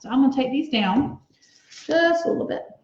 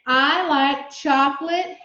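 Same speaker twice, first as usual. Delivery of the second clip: slow dictation; slower than usual. Shown as a demonstration. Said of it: "So just stay on that page".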